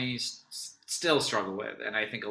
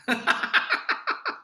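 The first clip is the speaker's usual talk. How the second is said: sneezing; 4 dB louder than usual. Real, not acted. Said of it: "Bless you".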